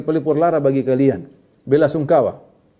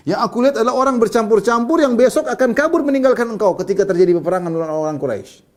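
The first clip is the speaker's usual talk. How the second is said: raised, high-pitched retold sneer; retold jeer, louder then easing down; mocking taunt; 8 semitones higher, 4 dB louder than usual. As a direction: scorn his followers in one emphatic run. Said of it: "sekarang ngejek para sahabat".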